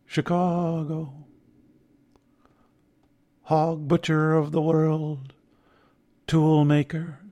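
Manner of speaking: slow sing-song recital of a Midwestern poet; sing-song poet reading. Retold or imitated. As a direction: lilt it like an old poet reading aloud. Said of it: "He had this sing-song voice".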